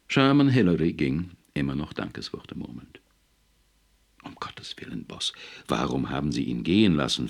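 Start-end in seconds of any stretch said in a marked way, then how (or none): 4.2-7.3 aghast whisper; stunned, whispered protest to the boss. Acted. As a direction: hiss it out in disbelief. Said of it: "fragte Ballinger fassungslos".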